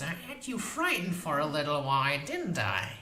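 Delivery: high, sweetly mocking crone; sweet smoky voice. A narrator's reading. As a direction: tease her, sweet and smoky. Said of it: "her sweet, smoky voice".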